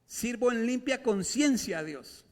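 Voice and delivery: a touch of Paul preaching; Paul's declaration. Retold or imitated. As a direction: proclaim it as the apostle. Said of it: "Por eso Pablo decía".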